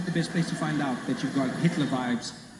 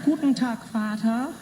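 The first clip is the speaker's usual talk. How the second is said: imagined proud greeting; 8 semitones higher, slower than usual. Pretend. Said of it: "I'll be like".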